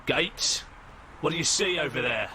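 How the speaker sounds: lightly acted officer's shout; mock shout. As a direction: call back to your fellow officer. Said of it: "the other man shouts back".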